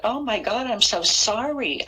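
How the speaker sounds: high-pitched, imitated distraught plea; mock-upset, voice lifted high; retold tearful apology. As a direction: re-enact an overwhelmed apology, without real sobs. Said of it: "I started hysterically crying".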